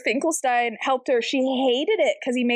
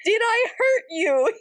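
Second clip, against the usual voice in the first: lightly worried; 7 semitones higher than usual. Acted. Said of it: "he asked worriedly".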